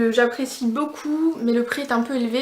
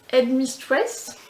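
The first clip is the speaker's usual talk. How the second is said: English accent; much slower than usual. Real, not acted. Beauty vlogger apologising for her English accent on a polish name, slow English accent. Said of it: "je m'excuse pour l'accent anglais".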